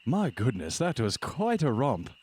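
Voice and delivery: put-on hearty old-fashioned gentleman, lilting; genteel husband character. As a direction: congratulate them like a gracious host after a hunt.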